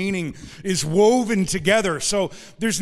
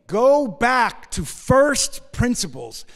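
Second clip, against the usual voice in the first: higher, incredulous challenge, then slow emphatic order; exasperated Paul; 5 semitones higher, slower than usual. Retold or imitated. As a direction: urge them back, stretching the key words. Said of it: "So Paul's like".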